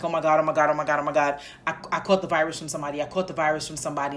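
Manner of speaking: fast, rushed panicky self-talk; imitating her own racing, panicked thoughts; panicked inner voice. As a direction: rattle it off in a mild mock panic. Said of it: "my mind starts racing and I'm like".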